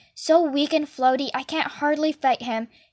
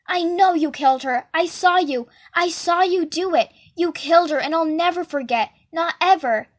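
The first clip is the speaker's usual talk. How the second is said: a milder raised accusing yell; screaming; 3 semitones higher than usual. Acted. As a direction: keep shouting the accusation, worn but insistent. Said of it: "keep screaming".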